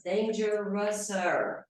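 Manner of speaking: dangerouser slowly stretched, "dain-jrus-er"; syllables sounded out. Shown as a demonstration. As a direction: draw out dangerouser to show the extra syllable. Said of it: "passa a ter três sílabas".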